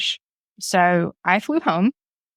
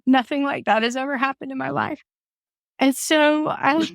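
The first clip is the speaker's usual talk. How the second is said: on the verge of tears; 6 semitones higher than usual. Real, not acted. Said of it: "I'm gonna cry right now".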